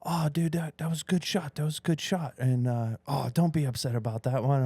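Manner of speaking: lightly voiced encouraging buddy; coddling golf buddy. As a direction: pat him on the back with your voice. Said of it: "And he's like".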